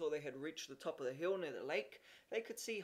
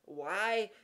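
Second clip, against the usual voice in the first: spouting; 2 semitones higher, 6 dB louder than usual. A narrator's reading. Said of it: "spouted Jimmy".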